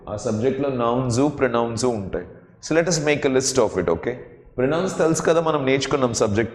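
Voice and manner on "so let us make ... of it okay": slow English. Shown as a demonstration. Teacher slows for English line.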